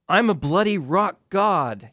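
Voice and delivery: mock Scottish rocker yelling his boast; Scottish accent. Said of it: "you know, in his Scottish accent".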